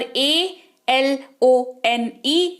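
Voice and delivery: spelling it out at half speed; very slow spelling. Shown as a demonstration. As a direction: spell ए एल ओ एन ई very slowly, each letter apart. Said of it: "यहाँ पर अ के तौर पर उच्चारण".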